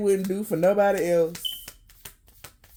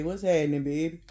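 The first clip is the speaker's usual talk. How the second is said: put-on lower, smooth New Orleans accent greeting; a light New Orleans charmer's accent, lower pitch; New Orleans pickup line; 5 semitones lower than usual. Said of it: "one of you motherfuckers from New Orleans".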